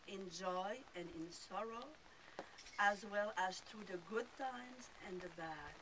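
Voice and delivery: lightly French-accented English vows; French accent, tender vows. Real, not acted. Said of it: "With this French accent".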